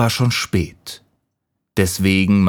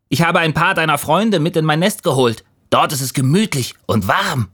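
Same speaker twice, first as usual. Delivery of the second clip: light, higher little voice; fine-voiced squirrel; 9 semitones higher, faster than usual. A narrator's reading. Squirrel invites the leaf to its nest, fine little voice. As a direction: invite kindly in a small lifted voice. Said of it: "sagte eine feine Stimme".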